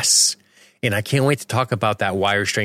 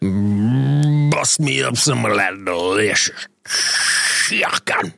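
Texan drawl; slower than usual. Retold or imitated. Hammed chicken line.

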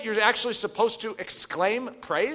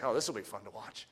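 amused calm; 12 semitones lower, 13 dB quieter than usual. Retold or imitated. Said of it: "you're just like".

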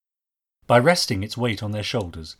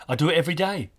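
put-on higher boy's voice, matter-of-fact; simple statement; 6 semitones higher, faster than usual. A narrator's reading. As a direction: answer simply as the young lad. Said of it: "he said simply".

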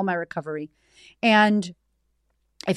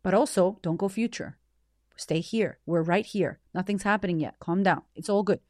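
soft self-soothing; 3 dB quieter than usual. Retold or imitated. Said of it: "trying to speak to myself while I'm also crying".

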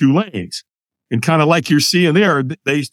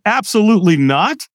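higher, firm comic refusal; emphatic refusal; 5 semitones higher than usual. Retold or imitated. Man asked to walk on fire tonight, emphatic refusal. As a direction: refuse flatly on a raised pitch. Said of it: "I said it with that tonality".

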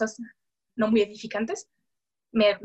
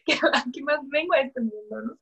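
real tearful voice; 3 semitones higher than usual. Real, not acted. Asking viewers what else she came to the world for, tearfully. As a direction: voice catching with tears. Remembering losing her identity.

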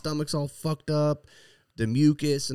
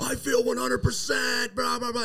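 imitating wife; 11 semitones higher than usual. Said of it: "she was just like".

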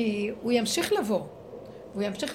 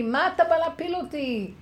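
loud, higher indignant yell; retold shout; 7 semitones higher, 5 dB louder than usual. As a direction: yell back in protest. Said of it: "ואני צעקתי". (צעקה נעלבת ורמה)

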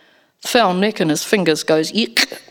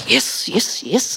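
frantic; 4 semitones higher, much slower than usual. Acted. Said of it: "almost frantically".

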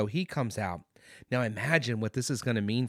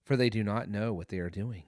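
soft, lower prayer to the Father; a hushed plea for forgiveness; quiet prayer; 4 semitones lower, 3 dB quieter than usual. Retold or imitated. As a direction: pray it gently, almost under your breath. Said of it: "He prays to his father".

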